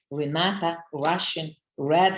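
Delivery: each R word hit harder, red the loudest; rolled R words. Shown as a demonstration. Speaker showing off her R words to the audience, punchy stress. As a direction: punch the R at the start of every word. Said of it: "And today about R".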